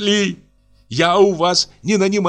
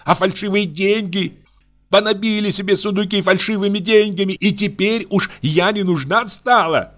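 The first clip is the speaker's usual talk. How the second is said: much higher, furious accusing rant; Аксинья кричит; 11 semitones higher than usual. A narrator's reading. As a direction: denounce them all. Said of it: "продолжала Аксинья кричать". (гораздо выше, яростные обвинения)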